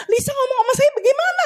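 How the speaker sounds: retold squealing exasperation; exasperated retort. Preacher retells confusion over Lisa speaking to her, exasperated.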